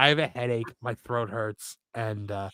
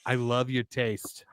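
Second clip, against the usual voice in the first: Italian guy; 5 semitones lower, 9 dB quieter, much slower than usual. Retold or imitated. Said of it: "a thing a guy in Italy would probably say".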